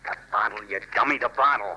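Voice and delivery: irritated crook scolding; exasperated. Acted. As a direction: lose patience with the partner. Crook berating partner.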